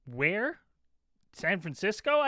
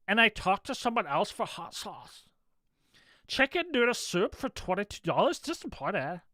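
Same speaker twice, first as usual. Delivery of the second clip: put-on lightly whiny valley-girl voice; a hint of a whiny cartoon princess; Lumpy Space Princess voice. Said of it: "you're nailing Lumpy Space Princess's voice".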